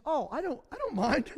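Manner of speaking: a hint of a cheerful mom brushing it off; mother's voice. Boys' mother answers him.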